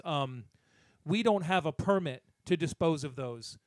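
retelling a flustered dump worker; clerk's voice. Retold or imitated. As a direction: play the bumbling dump clerk, stammering. Retold dump clerk refusing.

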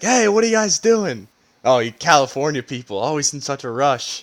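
lightly imitated New York accent. Mocking a local heckling Californians, light New York accent. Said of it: "some guy with a New York accent".

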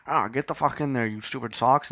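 hammed-up cranky outburst; mock cursing. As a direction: grumble like a cartoon gangster. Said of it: "he started swearing at himself".

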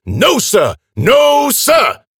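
high, full shout, building; yelled protest. A narrator's reading. Old man storms at the attackers, shouting. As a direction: shout it out, bigger the second time. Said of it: "Ian yelled".

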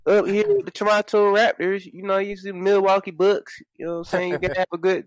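put-on Alabama Canadian accent. S0 plays a Raptors fan, Alabama Canadian accent. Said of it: "that's my Alabama Canadian".

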